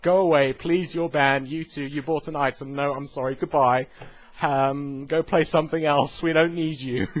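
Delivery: a hammed-up panicking game company; mock company voice. Developers panicking about server capacity, mildly loud mock voice. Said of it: "they're just trying to get rid of players".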